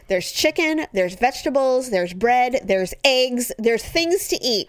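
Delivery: exasperated mom listing food; lecturing mom. Retold or imitated. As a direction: list it like a tired mother. Mom lecturing hungry kids.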